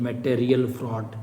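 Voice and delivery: "मटेरियल fraud" said slowly, syllable by syllable; slow, measured repeat. Real, not acted. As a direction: stretch out "material" as a teacher repeating a term. Teacher repeats the term slowly for students. ("मटेरियल fraud" धीरे-धीरे, खींचकर)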